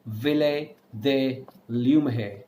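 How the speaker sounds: Ville de Lumeire, slowly, word by word; French name. Shown as a demonstration. Teacher naming the City of Lights, slow French pronunciation. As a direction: say Lumeire with a breathy French r, Ville as vee-lay. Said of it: "it is called as City of Lights".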